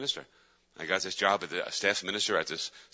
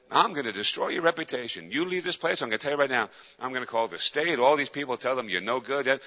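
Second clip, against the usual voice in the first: re-enacted threats, slightly raised pitch; retold berating; 3 semitones higher than usual. Furious boss threatening the departing counselor, retold berating. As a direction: act out a boss threatening him. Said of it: "he was just berating me".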